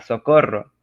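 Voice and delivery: loud call for help; mock cry for help. Shown as a demonstration. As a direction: shout socorro as if in trouble. Reading exclamation example.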